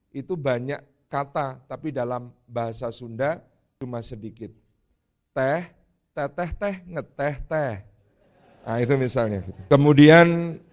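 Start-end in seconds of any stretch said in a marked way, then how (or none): 5.3-7.7 Teh, teteh teh, ngeteh teh in a bouncy Sundanese lilt, each teh a bit higher; Sundanese teh wordplay. Shown as a demonstration. Speaker showing the congregation how Sundanese packs teh words, lilting. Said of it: "ada bahasa Sunda yang".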